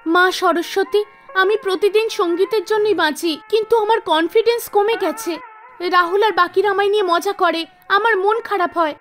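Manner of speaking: lightly voiced girl, a touch disheartened; gently imploring heroine; pleading young singer. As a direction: pray earnestly for guidance. Meena prays to the goddess.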